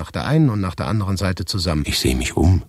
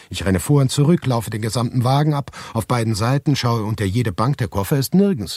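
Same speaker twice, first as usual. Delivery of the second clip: higher, hurried panic; panicked rush; 5 semitones higher than usual. Acted. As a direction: speak like you are running up and down the carriage. Panicked search for stolen suitcase.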